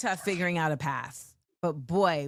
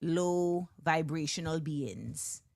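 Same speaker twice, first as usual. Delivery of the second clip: put-on slow, drawn-out West Indian accent with a punched exclamation; much slower than usual. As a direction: savor each word in a West Indian accent. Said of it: "a West Indian accent felt like that was needed".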